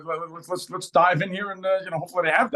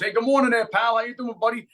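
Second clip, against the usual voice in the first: greeting a dog; 6 semitones higher than usual. Retold or imitated. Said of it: "I was saying hello to people's dogs".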